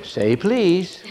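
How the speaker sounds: soft, high, laughing reply; joyful calm reply. Retold or imitated. Preacher answering cursing driver, soft amused. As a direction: answer the cursing with gentle joy. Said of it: "rose up in joy and rest and said".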